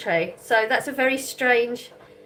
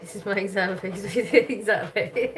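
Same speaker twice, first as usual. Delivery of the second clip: talking through real giggles; amused laughter. Real, not acted. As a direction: giggle your way through the words. Amused by an excuse for begging.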